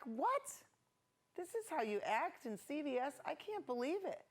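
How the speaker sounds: retold indignant telling-off; indignant mom. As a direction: scold the kids in mock disbelief. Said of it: "So I got really mad at them".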